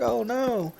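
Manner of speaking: a hint of a snotty online player; mocking gamer voice. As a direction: sneer a little at the redneck. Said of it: "They're gonna be like".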